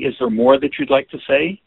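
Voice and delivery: "you'd like to say" rising as a question; questioning take. Shown as a demonstration. Teacher demos the question form. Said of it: "do you hear the difference between the question and the statement?".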